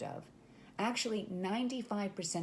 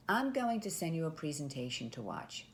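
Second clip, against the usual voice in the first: falling, matter-of-fact tone, stress on "I'm"; a composed, assured salesperson telling the next step; confident assumptive statement. Shown as a demonstration. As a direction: state it like it's already decided. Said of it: "you're gonna say".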